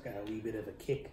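talking between bites; chewing while talking. Real, not acted. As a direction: mouth partly full. Seen 0: Left man grimaces, lips working as if chewing while speaking.

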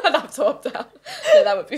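loud, laughing refusal. Real, not acted. Joking about a job swap she would refuse, laughing. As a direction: back out while cracking up.

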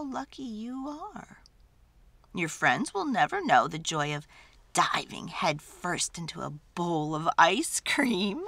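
a mother delighting her son; mother's loving voice. Acted. Mom tucks Spoon in, lively and tender.

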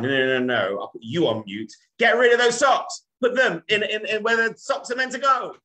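high, loud mock-angry wife scolding; wife yelling. Wife scolding husband about socks left on the floor, high loud yell. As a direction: shout it like a fed-up wife fussing over socks.

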